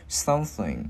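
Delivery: SOMETHING with the final NG rung out; ringing NG. Shown as a demonstration. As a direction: hold the closing NG of "Something". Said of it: "Mình ngân cái chữ ngờ ra". ("Something": ngân âm NG ở cuối)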